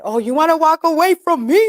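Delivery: mock angry. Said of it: "that made me more mad".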